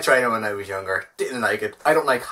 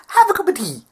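high loud mock-motherly "have a cup of tea"; much higher, louder put-on advice voice; 5 dB louder than usual. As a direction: pitch way up and push it. Mock advice for every problem.

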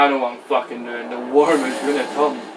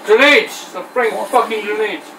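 loud, higher angry yell at the game; shouting at the TV; 5 semitones higher, 5 dB louder than usual. Real, not acted. Gamer shouting at the TV over grenades, angry yell. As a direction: bellow at the screen. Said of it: "He's shouting at the T V".

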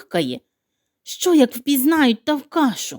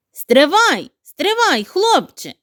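high, louder call of Стривай, стривай; 5 semitones higher, 3 dB louder, slower than usual. Acted. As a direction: stop him with a raised call. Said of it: "кричить черговий".

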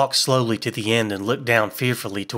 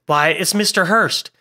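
surprised; 7 semitones higher, 4 dB louder than usual. Acted. Surprised recognition.

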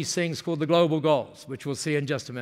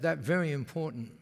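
softer, lightly imitated Japanese-English; a touch of her Japanese broken English; Masami's Japanese-accented English; 2 semitones lower, 7 dB quieter than usual. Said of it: "when they speak like that".

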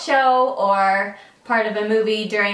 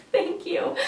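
grateful thank you; 10 semitones higher, 4 dB quieter than usual. Retold or imitated. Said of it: "I was like".

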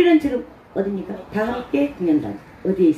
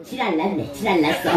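understated Gangwon dialect punchline; 4 semitones lower than usual. Shown as a demonstration. Performer giving the Gangwon version as a punchline, Gangwon dialect. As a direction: drop it offhand in Gangwon dialect. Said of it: "강원도 버전".

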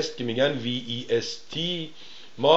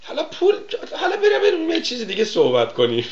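much higher, hammed-up evasive voice breaking into a laugh; mock dodging answer. Host parodying the guest changing the subject, hammed-up and high. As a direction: squirm out of the question, laughing. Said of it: "میگه".

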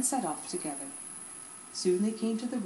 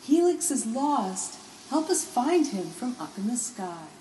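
urgent call; 4 semitones higher, 3 dB louder than usual. Acted. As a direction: shout the news up to the sky. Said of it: "she called".

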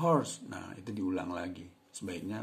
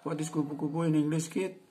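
model question; 9 semitones higher, 8 dB louder than usual. Shown as a demonstration. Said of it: "Jadi bisa diulang dari atas tadi ya".

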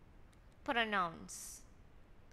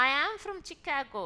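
slow reading; 4 semitones higher, 3 dB louder, much slower than usual. Shown as a demonstration. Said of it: "teacher reads example slowly".

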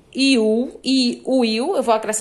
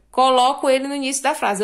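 usual speaking voice

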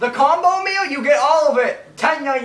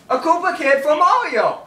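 lifted repeat; 3 semitones higher than usual. Shown as a demonstration. Insisting on the Koopa Kid joke to a friend, lifted repeat. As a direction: repeat it lifted, with more push.

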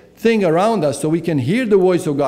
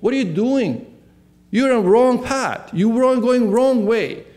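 a hint of a divine voice calling out; voice of God; 6 semitones higher than usual. God stopping Paul on his path, urgent rebuke. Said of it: "the same voice was asking".

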